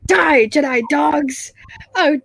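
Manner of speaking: slow, lightly droid-voiced line; a hint of prissy droid menace; C3PO quote. Quoting a favorite C3PO line, lightly droid-voiced. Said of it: "favorite quotes from C three P O".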